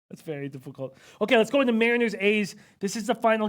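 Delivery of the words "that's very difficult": hushed, much softer repeat; soft, low-volume demonstration; attempted whisper. Real, not acted. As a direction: drop the voice toward a whisper. Tries the requested high energy whisper.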